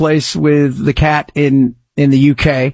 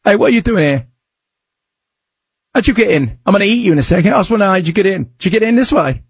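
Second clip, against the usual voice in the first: put-on British accent; 3 semitones higher, much faster than usual. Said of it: "What's going British accent, isn't he?".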